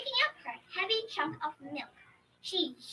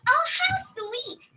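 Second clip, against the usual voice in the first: much higher, slow delighted coo; 11 semitones higher, 9 dB louder, much slower than usual. Acted. Old woman charmed by the fox, delighted coo. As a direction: melt at how sweet it is. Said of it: "said the old woman".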